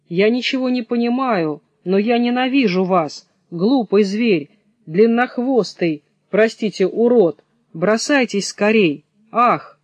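lightly voiced hare defying the wolf; defiant hare.

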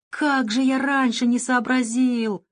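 slow, high delighted exclaim; happy exclaiming. Acted. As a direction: cry out with sudden joy. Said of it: "воскликнул счастливый".

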